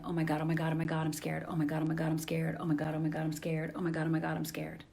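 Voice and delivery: low, quiet run-on muttering of fear; mock panicked looping. Imitating a mind stuck in fear, understated anxious chant. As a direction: rattle it off in a subdued, monotone loop. Voicing a fearful, looping mindset.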